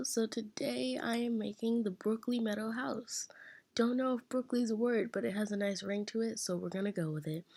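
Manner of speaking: hoarse, croaky morning voice; rough, worn-out hoarse voice. Real, not acted. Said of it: "my voice sounds like a dying horse today".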